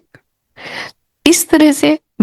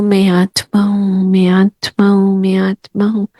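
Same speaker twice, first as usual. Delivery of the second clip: slow repeated affirmation. Shown as a demonstration. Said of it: "तीन बार पहले बोलो".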